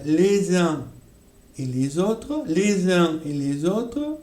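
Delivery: "les uns et les autres" with a z linking each les; liaison demo. Shown as a demonstration. Teacher showing students the liaison in "les uns et les autres". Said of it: "on a, euh".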